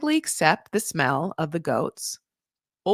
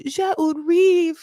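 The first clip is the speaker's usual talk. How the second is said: higher, louder, slow French declaration; mimicked husband, emphatic; 9 semitones higher, 5 dB louder, slower than usual. Husband insisting on his French line, mimicked emphatically. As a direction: proclaim the French line slowly and loudly. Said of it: "He's just like".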